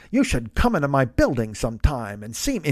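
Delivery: lightly put-on sultry movie vamp; Mae West. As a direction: imitate a poor vamp impression. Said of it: "she's clearly doing Mae West".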